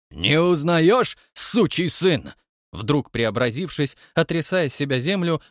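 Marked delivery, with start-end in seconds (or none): 0.1-2.3 slow, loud menacing growl. A narrator's reading. Count menaces the watchman, slow and loud. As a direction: loom over him threateningly. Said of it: "грозно ответил".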